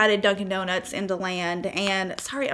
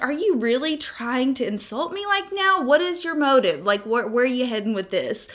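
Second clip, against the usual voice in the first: mock offended; 2 semitones higher than usual. Offended retort to drunk man.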